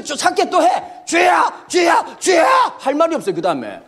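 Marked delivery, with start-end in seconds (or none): 1.1-2.7 slow, higher mock cry of sin; drawn-out cry. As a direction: stretch each word in a wailing call. Repenting kids calling out.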